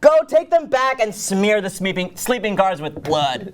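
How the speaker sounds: slow, stagey order; commanding. Acted. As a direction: order him slowly and deliberately. Lady Macbeth orders her husband about.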